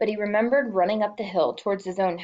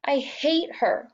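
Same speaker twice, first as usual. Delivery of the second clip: through sobs; 7 semitones higher, slower than usual. A narrator's reading. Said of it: "Jess said through his sobs".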